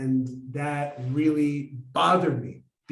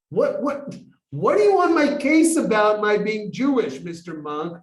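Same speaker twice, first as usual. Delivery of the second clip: high, loud, mock-exasperated challenge; splutter, then push back loudly; irritated retort; 6 semitones higher, 8 dB louder than usual. Irritated student asks why the monk presses him, loud exasperated retort.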